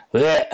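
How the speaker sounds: loud, high burst of disgust; disgusted retch. Real, not acted. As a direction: let out a sudden loud "yuck" noise. Disgust after calling her disgusting. (sunet de scârbă, tare și brusc)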